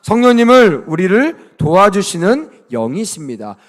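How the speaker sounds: loud read-along line; loud lead reading. Shown as a demonstration. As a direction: call it out for the kids to repeat. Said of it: "두 번째 읽어볼까요".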